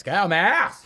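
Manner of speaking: loud, high imitated Cockney shout; Cockney correction. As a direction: bellow the Cockney line as a demonstration. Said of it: "And he goes".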